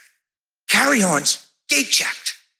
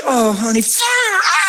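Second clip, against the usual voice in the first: fiery shout; 4 semitones higher, slower than usual. Retold or imitated. Preacher praying fire.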